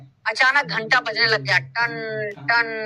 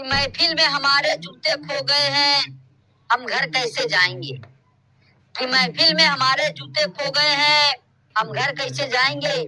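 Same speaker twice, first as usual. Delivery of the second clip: mock shayari recital; slower than usual. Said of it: "चलो मैं भी शायरी कर लेता हूँ".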